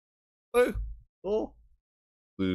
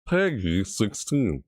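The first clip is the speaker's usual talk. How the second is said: slow rating announcer; 2 semitones higher, much slower than usual. Retold or imitated. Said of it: "It's like".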